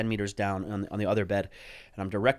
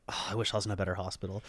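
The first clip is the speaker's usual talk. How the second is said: quiet wistful thought; 7 dB quieter, faster than usual. Retold or imitated.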